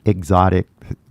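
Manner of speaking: エグゾティック in katakana-style syllables; katakana English. Real, not acted. Stumbling over an English loanword for viewers, in katakana style. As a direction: pronounce エグゾティック the Japanese katakana way. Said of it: "ごめん、カタカナ英語が。".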